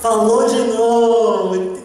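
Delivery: stretched out in awe; slow, marveling repeat; slow emphatic repeat. Shown as a demonstration. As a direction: savor each word slowly. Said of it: "repeated slow".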